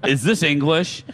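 laughing through a baffled question; laughing quote. Retold or imitated. Host retelling the visitors' confusion, laughing. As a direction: repeat the visitors' line while laughing. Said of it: "more than three people said that".

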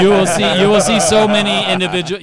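laughing and loud. Real, not acted. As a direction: push through a laugh. Laughing, excited after joke.

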